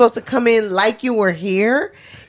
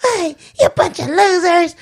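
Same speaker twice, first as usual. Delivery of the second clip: mock taunt; 11 semitones higher than usual. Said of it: "He's like".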